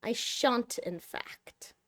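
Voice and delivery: soft, prim refusal on the cat's behalf; voicing the cat. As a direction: speak quietly as the reluctant cat, fading out. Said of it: "She says".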